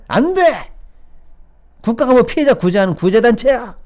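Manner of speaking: high, indignant outburst; frothing mock refusal. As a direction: imitate an official foaming with outrage. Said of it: "입에 거품을 물던 그 작자들이".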